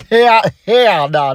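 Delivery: hammed-up slow hell nah; Tyler's hell nah. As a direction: stretch each word out in disbelief, imitating Tyler. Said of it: "That's what he said".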